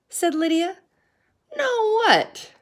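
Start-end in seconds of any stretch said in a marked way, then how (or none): 1.6-2.5 very high, eager question; curious. A narrator's reading. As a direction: ask all eager to hear. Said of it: "the others asked".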